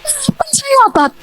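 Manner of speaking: Kapan saya ngotot? shouted very high and pushed, voice almost cracking; insistent shout. Shown as a demonstration. Wife shouts back at her husband to show the habit, insistent high shout. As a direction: fling the question back hard at husband. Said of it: "Nah, ini baru aja".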